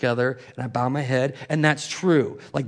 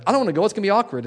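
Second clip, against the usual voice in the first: higher, louder reluctant whine; mock reluctant whine; 7 semitones higher, 6 dB louder, much faster than usual. Imitating a nervous churchgoer dreading going, whiny. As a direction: whine like someone dreading a party. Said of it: "you're like".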